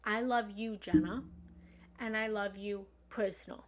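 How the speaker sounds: rising heartfelt chant; fervent mantra. Shown as a demonstration. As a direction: call it out with devotion. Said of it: "the fourth line is".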